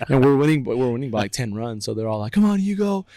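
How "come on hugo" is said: high, loud imitated rooting; cheering on. Teammates rooting for the batter, imitated cheering. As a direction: egg him on like a rowdy teammate.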